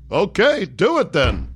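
Gorbachev meekly agreeing; quick pushover yes; meek rubber-stamp leader. Retold or imitated. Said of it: "King Rubber Stamp".

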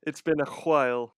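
"while" said as "hwhile", with an h before the w; mock-fussy "hwhile"; breathed wh. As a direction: exaggerate the h at the start of "while". Joking on aspirated wh.

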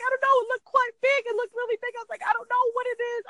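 high panicky rush; freaking out. Retold or imitated. Wife telling husband about the spider, high panicky squeal. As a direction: squeal it, still scared.

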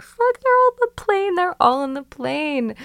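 high panicked wail about missing the plane; mock panic. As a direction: squeak it out in a frantic retold panic. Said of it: "So I'm like".

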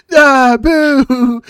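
high, loud booing; booing crowd. Retold or imitated. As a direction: jeer like a heckling crowd. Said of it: "then you have all the people".

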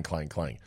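faded hollow clanging; clang sound. Retold or imitated. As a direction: quietly echo clang, clang like tin. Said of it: "hollow aluminum one that went clang".

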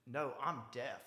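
lightly put-on English-Australian-like accent; imitated English-Australian-sounding accent. Woman at a bar explaining, light English-Australian-like accent. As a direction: mimic her unplaceable English or Australian accent. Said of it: "a English or Australian accent".

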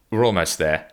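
amused mock-weary aside; laughing. Real, not acted. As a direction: joke wearily while cracking up. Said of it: "joking about ending".

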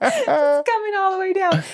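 laughing. Real, not acted. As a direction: laugh it out high. Laughing about fear of peeing.

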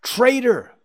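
very high, loud bird cry; high-pitched jeering call; calling magpies. A narrator's reading. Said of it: "called the magpies".

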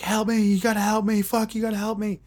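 high, frantic mock scream for help; panicked plea. A fleeing guy begs the narrator for help, high and panicked. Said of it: "run, like, screaming".

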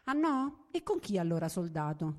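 sharp call at his back, rising on Ah no; called after him. Acted. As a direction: shout after a man walking away. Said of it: "gridò alle spalle dell'uomo".

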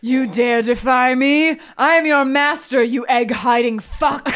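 slow menacing villain; booming demon lord. Acted. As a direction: loom over him, threatening. Scrooge threatens.

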